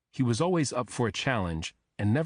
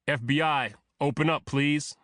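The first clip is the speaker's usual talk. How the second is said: calling out; 5 semitones higher than usual. A narrator's reading. Agent announces himself at door.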